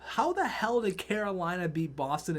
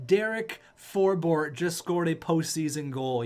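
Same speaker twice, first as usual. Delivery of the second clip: replayed goal call; 4 dB louder than usual. Real, not acted. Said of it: "Let me just replay that one more time".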